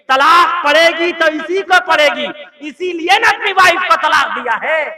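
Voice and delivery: loud sarcastic preaching; mocking loud. Preacher to crowd about the drunk, loud scorn.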